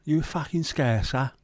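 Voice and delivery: high, slow mock challenge; lightly voiced menacing football fan; threatening lad. Fan confronting him abroad, mock menace. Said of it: "a Dutch accent has got me".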